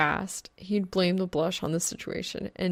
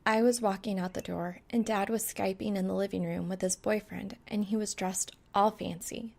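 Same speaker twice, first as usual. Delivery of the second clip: flat rapid-fire recital; monotone; 4 dB quieter than usual. Acted. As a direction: drone it out without feeling. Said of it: "spewing a monotone monologue".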